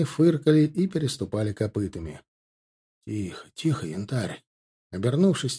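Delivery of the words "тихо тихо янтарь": soft, hushed words to a horse; calm the horse gently, softer; soothing a horse. A narrator's reading. Rider soothing his restless horse: soft and gentle. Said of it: "огладил морду своего коня".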